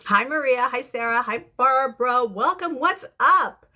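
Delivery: high, bright hellos building up; excited greetings. Real, not acted. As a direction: welcome each viewer with rising excitement. Greeting live viewers by name.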